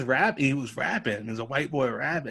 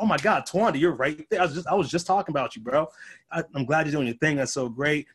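excited; 3 semitones higher than usual. Retold or imitated. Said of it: "He's like".

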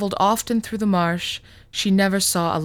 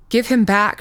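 louder, higher furious demand; angry demand; 4 semitones higher, 6 dB louder than usual. Acted. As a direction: order him to hand the child back. Mother demands her son back.

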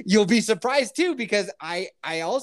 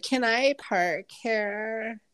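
imitating a chick; 7 semitones higher, much slower than usual. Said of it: "She's like".

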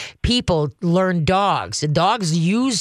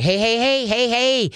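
quick higher warning "hey"s; sharp check; 6 semitones higher than usual. Shown as a demonstration. Trainer checking a growling dog, sharp and higher. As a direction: nip it in the bud with a sharp hey. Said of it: "you can check 'em on it".

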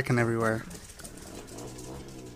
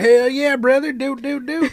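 devil voice; 9 semitones higher than usual. Retold or imitated. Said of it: "He's like".

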